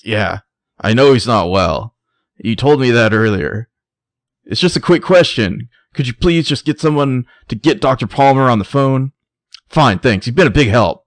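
hammed-up strained politeness; madman on the phone. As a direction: play mounting impatience with whoever answered. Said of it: "waving my arms around while I say that".

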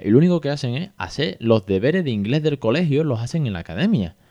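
mild mock anger. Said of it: "la bilis que se le subía".

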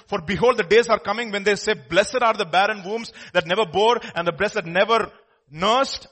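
loud, declamatory Bible reading; forceful scripture delivery; preaching scripture. Real, not acted. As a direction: proclaim the prophecy to the congregation.

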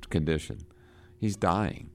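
normal talking voice

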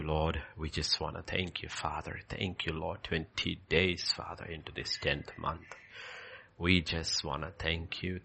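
intimate closing prayer fading to a whisper. Acted.

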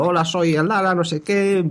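woman's voice. Retold or imitated. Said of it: "Pero pones voz".

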